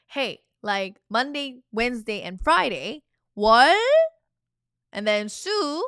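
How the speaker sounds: cheerful emphatic listing; teacher showing a lively example sentence; upbeat example. Shown as a demonstration. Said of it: "That's how you can say".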